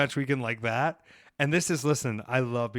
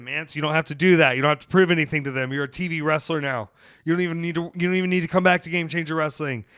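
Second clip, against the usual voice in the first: pleading; 4 semitones higher, 5 dB louder, faster than usual. Retold or imitated. Pleading with Mance in retold scene.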